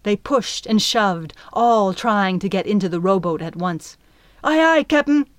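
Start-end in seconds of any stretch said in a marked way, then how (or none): 4.4-5.3 high loud eager reply; calling out. A narrator's reading. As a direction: call back over the crowd. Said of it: "Flea called".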